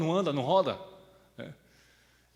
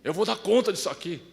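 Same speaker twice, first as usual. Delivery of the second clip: reassuring mother; 3 semitones higher, 5 dB louder than usual. Retold or imitated. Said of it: "o filho mais velho, tinha que aguentar o choro".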